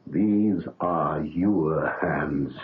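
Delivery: slow, grave, voice catching; solemn insistence. Acted. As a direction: press each word home gently. Doctor insists hands are his.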